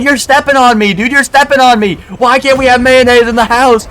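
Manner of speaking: high, loud squeaky complaint; whine-yell like he's being trampled; mock yelling. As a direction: roommate snapping about mayonnaise, high mock yell. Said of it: "The guy just starts yelling at him".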